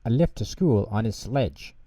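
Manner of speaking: put-on lively children's storybook narration; reading to children. A narrator's reading. Narrator reading Pingu to children, lively storytelling. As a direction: read it like a bedtime story for kids.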